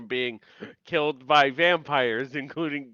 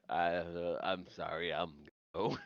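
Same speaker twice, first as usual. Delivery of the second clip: much softer, fumbling apology; awkward mumble; 9 semitones lower, 12 dB quieter than usual. Retold or imitated. Stefan backing away from Matt's mom, mumbling softly. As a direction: trail off in embarrassment. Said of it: "he's like".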